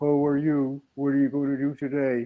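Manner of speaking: mock flat, unchanging monotone voice. Telling the other speaker about a really boring friend: imitating a monotonous voice. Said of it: "His voice was so monotonous".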